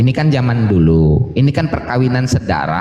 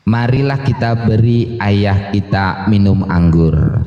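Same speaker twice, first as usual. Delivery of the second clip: slow, low scripture reading; 3 semitones lower, slower than usual. Shown as a demonstration. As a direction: read the verse slowly. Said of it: "Isinya begini".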